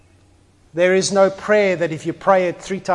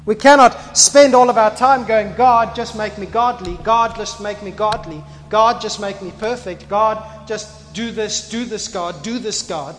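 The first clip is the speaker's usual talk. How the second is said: mock pleading prayer, higher and louder; 4 semitones higher, 6 dB louder than usual. Preacher mimics people nagging God in a higher pleading voice. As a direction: whine at God like a nagging child. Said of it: "begging God to act".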